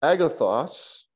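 agathos said slowly, stress on the last syllable os; teacher modelling agathos; careful Greek word. Shown as a demonstration. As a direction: sound out agathos slowly, accent on os. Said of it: "you said agathos".

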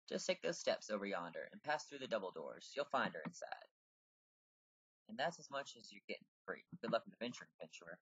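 lightly put-on British accent; British female character voice. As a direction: read the quest-giver in British. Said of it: "almost sounds female".

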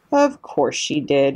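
slow grumbling aside; muttered. Acted. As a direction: grumble it under your breath, slowly. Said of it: "Mister Beaver muttered to himself".

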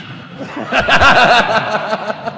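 high staccato mocking cackle; imitated mocking laugh. Golf instructor laughing at frustrated student, mocking laugh. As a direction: laugh at someone's misery, high and drawn out. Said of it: "he's laughing".

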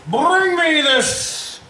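slow, drawn-out sneering fop; fabulous fop in furs. Retold or imitated. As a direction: purr it like a vain villain. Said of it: "always just like a fabulous fop in furs".

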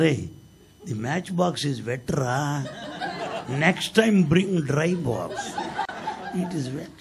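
slow, laughing advice; amused teasing. Retold or imitated. Baba telling the arsonists to bring dry matches, laughing. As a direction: tease them slowly with a chuckle.

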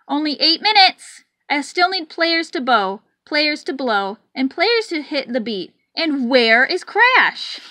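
anxious, hurried conductor voice; a stressed bandleader counting the minutes; frantic. Acted. Frantic conductor calling for players.

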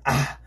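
short tacked-on preacher "ah"; imitated revivalist "ah" punctuation; exaggerated preacher's breath-out "ah"; mock preacher's "ah". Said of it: "put that little extra".

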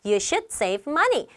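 You should save money spoken very slowly, word by word; slow teacher read-aloud; slow model sentence. Shown as a demonstration. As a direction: read it slowly for learners to copy. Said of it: "model sentence".

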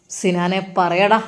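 a policewoman slowly demanding Sinan speak; police demand. Acted. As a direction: press him slowly like a cop.

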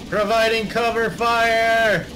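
hammed-up soldier call; cover me shout. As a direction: bark it like a mock soldier. Answering "cover me" in soldier mode.

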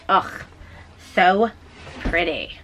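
drawn-out so, dropping pretty; swooning. Real, not acted. Knitter gushing about yarn color, swooning. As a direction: sigh it out in love with the color.

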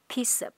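teacher shows the linking; linked piece of. Shown as a demonstration. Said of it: "nối với hợp thành".

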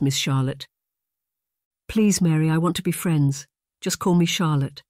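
put-on light Scottish brogue of a young maid; lightly Scottish maid. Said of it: "Her Scottish brogue was pronounced".

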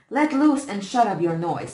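put-on older brother orders him to stop crying, angry. A narrator's reading. Bully silences crying brother.

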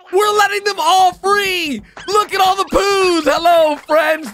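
high, loud thrilled shout; excited. Real, not acted. Gamer freeing all the poos, high excited shout. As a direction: cheer it out.

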